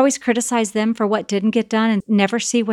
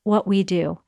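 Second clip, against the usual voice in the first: calm parent. Retold or imitated. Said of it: "to tell them".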